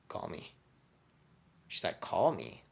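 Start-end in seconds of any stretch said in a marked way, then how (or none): 0.1-0.6 quiet, offhand invitation; cool flirty aside. Retold or imitated. Storyteller flirting with an admirer, soft and cool. Flirting, then her puzzled echo. 2.0-2.6 mock baffled repeat of CALL ME; puzzled echo. Admirer questioning the flirt's odd request, puzzled.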